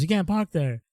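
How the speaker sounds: mock Asian-accented scolding; imitated Asian accent. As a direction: mimic the store owner's Asian accent. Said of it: "he has an Asian accent".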